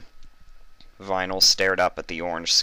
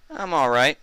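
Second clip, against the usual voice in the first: Vinyl; 10 semitones higher, 5 dB louder than usual. A narrator's reading. Vinyl answers Fluttershy.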